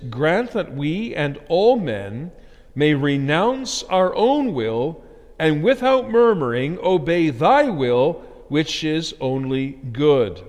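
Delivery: slow, measured recitation with weighted words; emphatic catechism reading. Acted. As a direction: read it out slowly and solemnly to the congregation. Reads catechism aloud emphatically.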